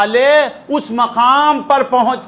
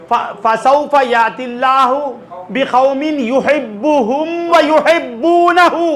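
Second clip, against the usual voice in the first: Quranic recitation. Acted. Preacher quotes Quran verse.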